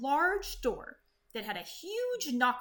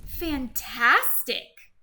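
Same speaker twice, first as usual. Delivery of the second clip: mock-admiring; 7 dB louder, much slower than usual. Praising the dragon.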